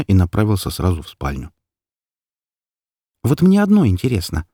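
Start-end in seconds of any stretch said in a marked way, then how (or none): 3.2-4.5 calling out. A narrator's reading. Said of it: "окликнула я его".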